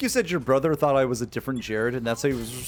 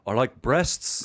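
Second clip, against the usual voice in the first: Ian impression; much slower than usual. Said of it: "That's what he sounds like".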